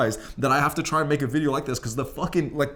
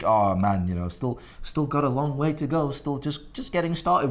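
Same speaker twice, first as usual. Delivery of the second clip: mock meek, self-doubting mumble; mocking insecure self-talk; 2 semitones higher than usual. Mocking a timid gym-goer's self-doubt, lightly parodied meek voice. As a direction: parody a timid guy who thinks he's not good enough. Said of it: "these gay little fucking insecure little pussy thoughts".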